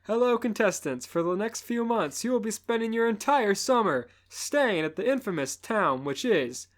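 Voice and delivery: loud TV host voice; host announcer voice. Acted. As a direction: announce it like a game show host.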